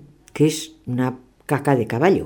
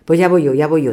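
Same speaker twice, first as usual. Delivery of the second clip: agitated; 2 semitones higher, 7 dB louder than usual. Acted. Nervous servant volunteering.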